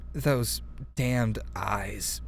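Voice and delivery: slow, sultry read of "those damned eyes", drawn out; way too thirsty. Shown as a demonstration. Reader tries a line from the book, sultry and slow. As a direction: linger on "damned" like you want him. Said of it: "that sounded way too thirsty".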